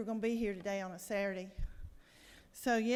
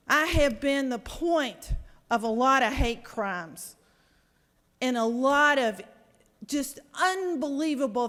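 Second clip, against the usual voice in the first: real angry outburst; 2 semitones higher, 6 dB louder than usual. Real, not acted. Senator to the chamber about hate against Jews, angry and louder. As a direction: hammer each phrase home, shaking with indignation. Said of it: "I'm mad. I'm furious".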